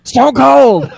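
loud, high, laughing yell of a wrestling name; blurted shout. Retold or imitated. Glass shatters at the table, a laughing shouted blurt. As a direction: let it burst out before you can stop it. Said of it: "uncontrollably said".

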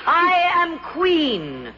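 slow, booming divine voice; goddess voice. Acted. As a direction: speak as a goddess within. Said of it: "A divine voice speaks within me".

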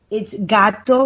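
gato with a Spanish a, GAH-toh; Spanish pronunciation. Shown as a demonstration. Teaching friends Spanish, gato said the Spanish way. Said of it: "we're gonna do a lesson, a Spanish lesson".

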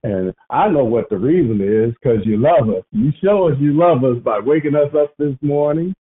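steady earnest prayer voice. Acted. Leading the prayer line in thanks, earnestly. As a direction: lead them in prayer, sincere.

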